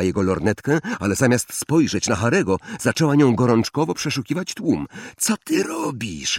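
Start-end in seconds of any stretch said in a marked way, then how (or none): 5.2-6.4 much higher, softer anxious groan; Ron groaning. Acted. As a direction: moan it in dismay. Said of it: "jęknął Ron".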